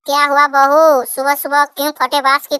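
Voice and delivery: put-on very high-pitched old mother-in-law voice; scolding mother-in-law. Mother-in-law answers her daughter-in-law's morning call, scolding.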